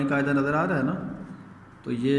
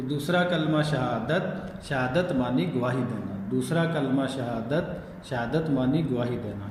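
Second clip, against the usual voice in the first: rote recitation; 3 semitones lower than usual. Shown as a demonstration. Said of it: "پندرہ بیس مرتبہ پڑھنا ہے".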